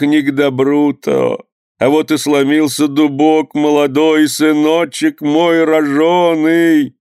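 high, slow keening lament for a son; wailing lament. A narrator's reading. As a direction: wail it like a mother mourning her son. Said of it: "всхлипнула и заголосила". (мать голосит по сыну, протяжный плач)

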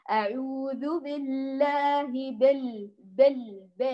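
slow أعوذ بالله with the bi slackened to "be"; incomplete kasra. Shown as a demonstration. Teacher mimics a common mistake, kasra left incomplete as "be". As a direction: open the i of بال toward e, "bel". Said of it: "عدم إتمام كسر الباء".

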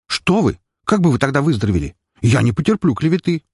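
high, fast fake outrage; unconvincing indignation. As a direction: bluster defensively as the doctor. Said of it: "Не слишком убедительно перешёл он в атаку". (неубедительное возмущение врача)

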